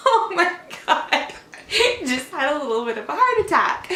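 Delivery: laughing off her own fright at the shadow; nervous laughing. Real, not acted. Mom recounting her son's spooky shadow question, nervously laughing.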